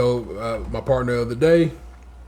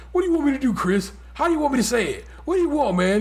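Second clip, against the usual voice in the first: high, exasperated mock Trump whine; mock Trump, pitched high and indignant; imitating Trump; 10 semitones higher, faster than usual. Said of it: "And he's like".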